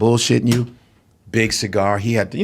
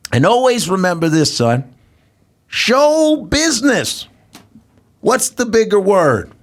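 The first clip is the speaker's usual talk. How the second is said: Cosby impression; 7 semitones higher than usual. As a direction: draw out show like a sage. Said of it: "he goes".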